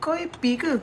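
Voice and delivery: lightly voiced teary armpit, half laughing; mock whiny armpit. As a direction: play the sulky armpit nagging its owner. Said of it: "dia macam".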